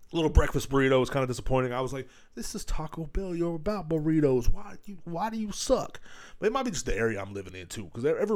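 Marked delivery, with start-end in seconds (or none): 2.4-6.0 higher, whiny-style protest, dragged out at the end; mock exasperated complaint. Customer complaining to Taco Bell, mock exasperated. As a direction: plead in mock disappointment.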